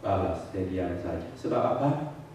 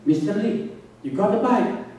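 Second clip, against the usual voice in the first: calling out; 9 semitones higher than usual. Retold or imitated. Calling to fisherman about bite.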